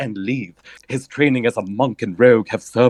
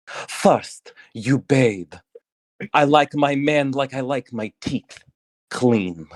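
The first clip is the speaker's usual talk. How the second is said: barbarian woman; 3 semitones higher, slower than usual. Acted.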